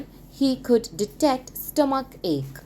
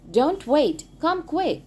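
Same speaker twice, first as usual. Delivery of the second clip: urgent; 6 semitones higher than usual. A narrator's reading. Sid urges aunt.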